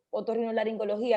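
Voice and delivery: otorrinolaringología rattled off fast; rushed. Shown as a demonstration. Host asking someone to say a tongue-twister, rushed. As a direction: run quickly through the long word. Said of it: "en vez de decirlo a la carrera".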